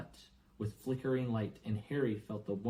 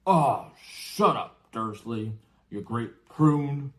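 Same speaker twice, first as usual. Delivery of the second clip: slow, louder giant brushing him off; scornful giant; 10 dB louder, much slower than usual. Acted. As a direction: swat him away with contempt. Giant dismisses Vernon.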